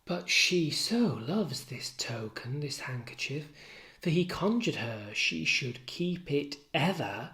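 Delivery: hushed start, pitch climbing at the end; lightly voiced Emilia. Waiting woman musing over her mistress's handkerchief, lightly hushed. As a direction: muse over it half-whispered, then lift.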